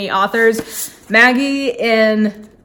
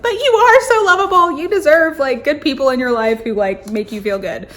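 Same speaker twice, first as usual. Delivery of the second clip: reassuring gush; 5 semitones higher than usual. Retold or imitated. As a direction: coo it to a character you adore, much higher at the start. Reassuring a fictional character in her head.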